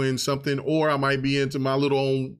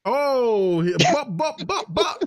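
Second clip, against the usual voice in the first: high giggly bop bop; laughing bop bop; 10 semitones higher, slower than usual. Real, not acted. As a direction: squeal the bops through a laugh. Reacting to ganja joke.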